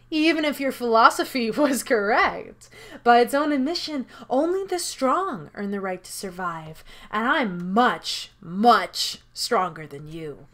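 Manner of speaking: gloating game master, savouring the words; smug villain monologue, slowing to the end; villainous host. Acted. Villain host lectures captive.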